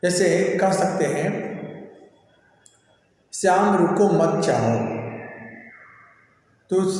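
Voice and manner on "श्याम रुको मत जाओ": "श्याम रुको मत जाओ" run together without a break; no stop anywhere in "श्याम रुको मत जाओ"; no punctuation pause. Shown as a demonstration. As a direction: read "श्याम रुको मत जाओ" as one unpunctuated string. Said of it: "इसका कोई अर्थ नहीं निकला".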